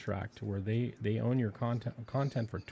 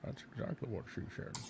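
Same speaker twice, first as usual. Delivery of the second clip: whisper; 10 dB quieter than usual. Pretend. Joke whispered back.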